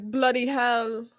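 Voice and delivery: lightly put-on British accent; mock British accent. Shown as a demonstration. Offering a British phrase to friend, mock British accent. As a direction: try a British curse. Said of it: "say made up British words".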